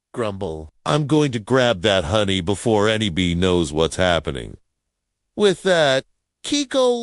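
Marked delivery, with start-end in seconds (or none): 0.8-4.6 sneaky plan voice. Acted. Character plans to grab honey.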